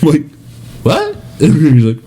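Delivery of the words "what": very high-pitched, incredulous yelp; retold startled question, pitch shooting up; taken aback. Acted reaction to the news.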